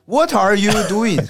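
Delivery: English with a Shanxi lilt, slowly; Shanxi-accented English. Retold or imitated. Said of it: "这不山西话吗".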